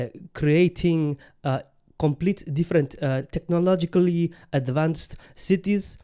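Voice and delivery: a put-on Arab accent, hyped-up fan praising the Saudis; a mild Arab accent, gushing about the Saudi team. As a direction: lightly play a proud Arab fan in an Arab accent. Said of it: "I'm not gonna do the Arab accent anymore".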